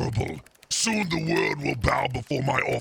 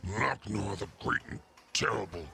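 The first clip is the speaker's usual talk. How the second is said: quiet, grumbling demon name; sulky mumble; 5 semitones lower, 9 dB quieter than usual. Acted. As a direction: mutter it, cowed by the threat. After timeout threat, subdued.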